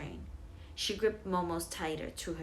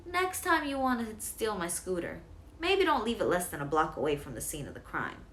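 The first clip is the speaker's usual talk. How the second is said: joking teasing; 3 semitones higher, 4 dB louder than usual. Acted. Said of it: "David said jokingly".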